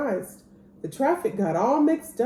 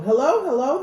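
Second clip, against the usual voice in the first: firemen answering; 5 semitones higher, 5 dB louder than usual. A narrator's reading. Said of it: "they said".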